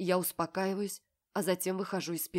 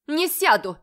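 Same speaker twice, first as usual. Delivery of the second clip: higher, much louder yell; 8 semitones higher, 11 dB louder than usual. A narrator's reading. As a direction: refuse at full voice. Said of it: "орёт Оля".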